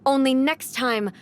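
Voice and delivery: slow, deliberate warning; slow menacing promise of no mercy; cold threat. Acted. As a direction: let each word land like a final verdict. Shogun threatens the clans.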